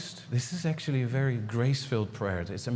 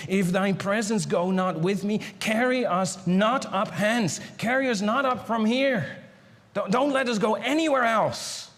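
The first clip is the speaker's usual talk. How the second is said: desperate plea; 5 semitones higher than usual. Acted. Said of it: "hear the desperation in his voice".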